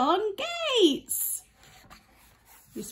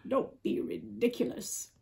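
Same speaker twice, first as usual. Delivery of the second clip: cat line, lightly voiced; 4 dB quieter than usual. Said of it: "said the cat".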